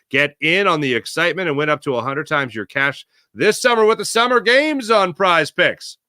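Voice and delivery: upbeat sponsor ad read. Acted. Podcast host reading a sponsor ad, upbeat ad voice. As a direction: sell the app like a radio spot.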